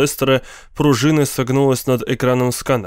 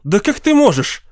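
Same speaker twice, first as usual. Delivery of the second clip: high, appalled reproach; shocked gasp; 8 semitones higher, 3 dB louder than usual. A narrator's reading. Wife reproaches husband for his cruel hint, aghast. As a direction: exclaim in disbelief, pitch leaping up. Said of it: "ахнула Джилл".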